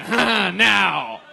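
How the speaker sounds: exaggerated fake laughter between words; mocking self-amused laugh. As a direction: mimic a comic laughing at their own jokes. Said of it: "you don't need to be like".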